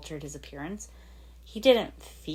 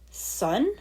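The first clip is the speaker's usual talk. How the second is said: shocked; 6 semitones higher than usual. Acted. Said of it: "he asked in shock".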